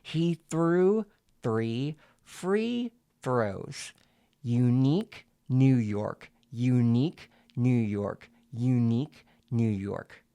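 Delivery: slow tongue twisters with each syllable set apart; deliberate syllable-by-syllable staccato, pen between the teeth. Shown as a demonstration. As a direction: break up every syllable, one at a time. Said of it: "do this for the other two".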